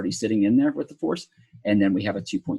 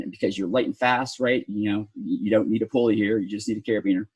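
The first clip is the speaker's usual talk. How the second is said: dry mock-casual sarcasm; sarcastic. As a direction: say it like it's obviously fine, tongue in cheek. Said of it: "I'm saying that obviously very sarcastically".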